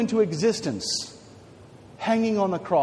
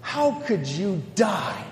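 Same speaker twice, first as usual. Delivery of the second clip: devil whispering; slower than usual. Acted. Devil tempting Jesus in his ear, hushed and sly. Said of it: "the devil whispered into his ear".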